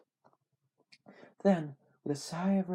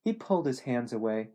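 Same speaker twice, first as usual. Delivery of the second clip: ordinary delivery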